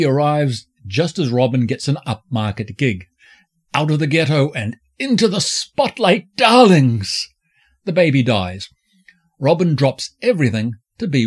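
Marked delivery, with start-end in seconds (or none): 3.7-7.3 campy drag queen. Acted. Camp exclamation, loud darlings.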